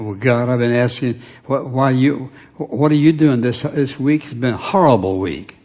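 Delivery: indignant retold complaint to God; haughty. Man complaining to God after a bad week, haughty. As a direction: protest haughtily, stumbling over the question. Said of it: "being very haughty and saying".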